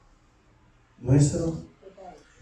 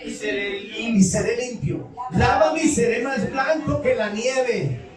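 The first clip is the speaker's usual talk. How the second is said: slow solemn reading; 3 semitones higher, 3 dB quieter, slower than usual. Acted. Reading the psalm slowly.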